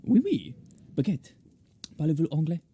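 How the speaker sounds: practising a stock French accent. Shown as a demonstration. Narrator warms up for a shaman's voice, practice French accent. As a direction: try out French phrases to find the accent. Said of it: "I need to listen to a French person".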